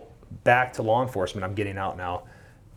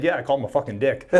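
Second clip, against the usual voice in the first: laughing admission; 5 semitones higher, 4 dB louder, faster than usual. Retold or imitated. Admits insult to sergeant, laughing.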